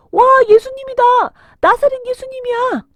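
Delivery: loud, high cry of excitement; excited shout. Acted. Villager spots Jesus arriving in town, excited shout. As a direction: call out to the crowd, thrilled.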